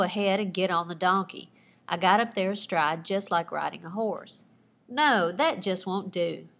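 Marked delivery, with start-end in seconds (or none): 4.9-6.5 slow, lightly nasal snooty director; a hint of a stuck-up director drawing it out; snobby nasal twang. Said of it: "in a snobby nasal twang".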